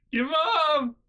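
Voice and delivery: high, whiny demand; whiny sister. Retold or imitated. Sister on the phone demanding mom, high whiny voice. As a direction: imitate a grown sister whining for mom. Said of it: "And she's like".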